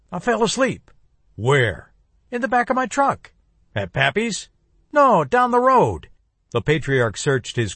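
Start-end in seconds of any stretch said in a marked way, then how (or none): 0.1-6.1 put-on higher, lighter young man's voice; nervous grandson dodging questions; young man cornered by his grandfather; evasive young man.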